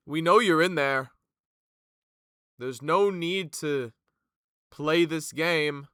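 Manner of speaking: loud, slow warning into darkness; calling out menacingly. Acted. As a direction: call out slowly, threatening. Captain calls into cell block.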